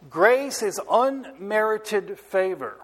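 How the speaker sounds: "unmerited" drawn out slowly and leaned on; slow the line down and stress "unmerited". Real, not acted. Preacher defining grace for the congregation, slow stress on "unmerited". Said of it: "I stress the word unmerited".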